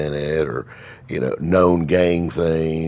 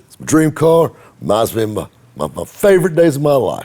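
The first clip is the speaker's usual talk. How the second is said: fond enthusiasm; 10 semitones higher, 8 dB louder than usual. Retold or imitated. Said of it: "I said".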